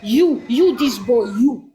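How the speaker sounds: high, jabbing, repeated accusation; angry shouting. Real, not acted. Singling out this boy as the culprit, angry shouting. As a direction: fire each "you" at them like a pointed finger. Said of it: "Who's getting you angry that you're just shouting?".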